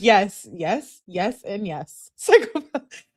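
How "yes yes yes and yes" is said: laughing yes. Real, not acted. Laughing agreement with chat.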